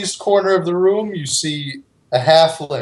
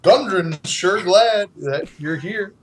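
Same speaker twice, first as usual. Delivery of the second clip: theme park character. Acted. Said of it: "It's Barney".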